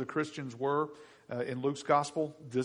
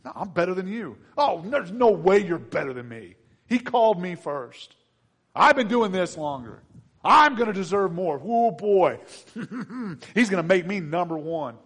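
playful rival boasting, louder; mock bickering disciples; 4 semitones higher, 8 dB louder than usual. Preacher acting out disciples squabbling, mock boastful. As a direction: ham up a petty quarrel. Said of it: "me and Tony at this end of the table go".

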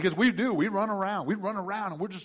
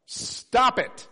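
firm rebuke; 6 semitones higher, 5 dB louder than usual. Acted. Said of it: "Jesus said".

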